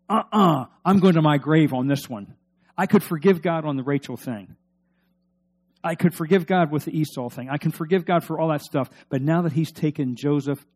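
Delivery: loud stubborn Jacob; Jacob refusing. Acted. Preacher voicing grieving Jacob, loud and stubborn.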